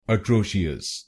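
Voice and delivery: atrocious said as "अट्रोशियस", slowly, the wrong way; wrong Indian pronunciation. Shown as a demonstration. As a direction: drag out atrocious the common Indian way. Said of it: "कुछ लोग India में इस शब्द को गलत बोलते हैं". (गलत भारतीय उच्चारण)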